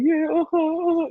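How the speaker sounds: high loud mocking uh-huh; sarcastic yell. Son answering his mother about hell, loud sarcastic high uh-huh. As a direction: shout it back, dismissive. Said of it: "I was like".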